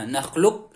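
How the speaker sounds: "nakhluq" stopped on a heavy q, no echo. Shown as a demonstration. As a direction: set up the q in "nakhluq" without releasing a bounce. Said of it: "seperti kita mau mengucapkan huruf qaf".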